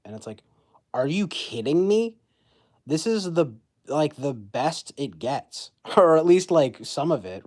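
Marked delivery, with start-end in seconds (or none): 0.9-5.7 a high, loud mock disbelief; incredulous. Vlogger retorting to critics who trash the heroine, mock disbelief. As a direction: throw it back in disbelief.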